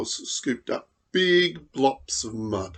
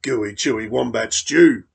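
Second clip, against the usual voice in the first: louder, proud boast; boastful dingo; 2 semitones lower, 6 dB louder than usual. Acted. Dingo boasts of his stew to Emu, mild boast. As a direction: brag about your stew. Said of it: "boasted Dingo".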